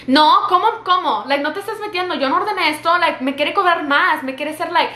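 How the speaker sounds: retold affronted protest; arguing customer. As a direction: imitate a mother protesting to her son. Acting out mother arguing about bill.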